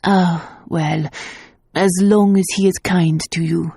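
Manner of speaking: hiding glumness. A narrator's reading. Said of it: "trying not to sound glum".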